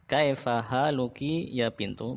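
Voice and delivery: slow repeat of "Kaifa haluki ya bintu?" with a rising end. Shown as a demonstration. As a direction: repeat it slowly, asking.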